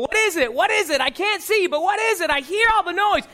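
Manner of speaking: acted confused, pressing questions; urgent questioning. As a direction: ask insistently, desperate to find out. Acts blind beggar asking crowd.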